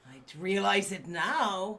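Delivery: bad stage Irish accent. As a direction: lay on a thick Irish lilt. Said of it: "do not do good, uh, Irish accents".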